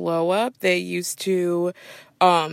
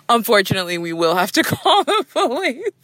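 higher, prim official voice, laughing; mock polite staff; 4 semitones higher than usual. Airline staff warning passenger, prim and polite. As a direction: sweetly deliver bad news. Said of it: "it usually ends with them being like".

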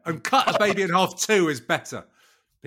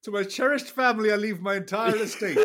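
grand voice of the deceased reading a will; solemn will reading; 6 semitones higher than usual. Pretend. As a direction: intone it like a dying benefactor.

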